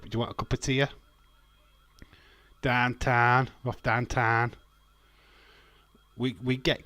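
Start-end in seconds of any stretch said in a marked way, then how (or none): 0.0-0.8 imitating a Barnsley accent, a bit higher. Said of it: "They'll go cup". 2.6-4.5 loud "Downtown" with flat dahn-tahn vowels; Yorkshire pronunciation. Shown as a demonstration. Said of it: "it's a certain way of saying stuff".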